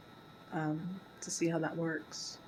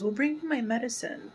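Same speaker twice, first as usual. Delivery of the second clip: higher mock whine, lightly voiced; needy mother; 6 semitones higher, 4 dB louder, faster than usual. Mother calling her son back for medicine, a higher mock whine. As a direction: play the clingy mother calling him back.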